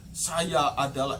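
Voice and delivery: slow, measured, dignified declaration; intonasi diatur. Acted. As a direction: announce it slowly as a self-proclaimed prophet. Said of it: "mesti diatur intonasinya". (intonasi diatur, pelan berwibawa)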